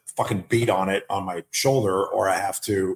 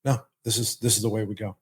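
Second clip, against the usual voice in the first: calm, slightly softened reassurance; understated, steady voice of calm; calm force. Acted. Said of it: "everybody sees you as the calm force".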